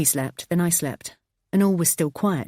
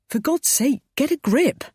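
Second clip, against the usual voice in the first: louder exasperated shout; 10 semitones higher, 4 dB louder than usual. Acted. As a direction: bark it in frustration. Husband shouting back at wife.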